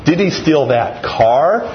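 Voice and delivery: slow, he stressed; he picked out, slow. Shown as a demonstration. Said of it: "five different things".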